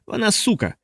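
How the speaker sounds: high, spat-out insult; enraged man spits the insult; venomous. A narrator's reading. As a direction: spit the word out in rage.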